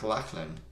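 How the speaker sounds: Lachlan with an open "ah", LAHK-lən; own pronunciation. Shown as a demonstration. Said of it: "I would pronounce your name like".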